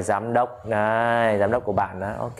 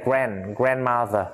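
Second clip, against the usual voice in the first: "grand, grandmother" in American English; American accent; slower than usual. Shown as a demonstration. Teacher shows students the American reading, American accent. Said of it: "giọng Mỹ đọc chữ này".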